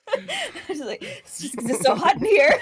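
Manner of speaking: laughing through a sheepish excuse; flustered, words breaking into laughter. Retold or imitated. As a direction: giggle helplessly while making your excuse. Laughing, flustered excuse over a crush.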